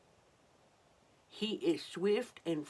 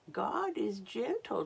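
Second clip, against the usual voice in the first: higher, light chirpy voice; chirpy robin; 5 semitones higher than usual. Acted. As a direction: chirp it brightly. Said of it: "chirped the robin".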